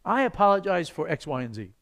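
sincere apology, spelled out item by item; mean it and name each wrong; earnest, careful apology; specific apology. Shown as a demonstration. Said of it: "Spells it out".

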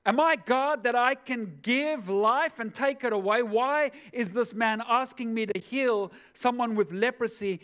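upset king. Acted. King protests the impossible request.

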